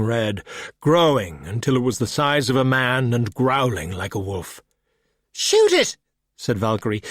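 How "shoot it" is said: much higher, loud frantic yell; panicked shout. Acted. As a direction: scream it as the monster charges. Monster rabbit lunges at them.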